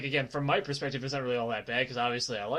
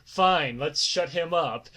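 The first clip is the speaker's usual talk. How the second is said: retold grudging agreement, starting louder; exasperated giving in; 3 dB louder, slower than usual. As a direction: give in with a mock eye-roll. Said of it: "sigh, roll my eyes and say".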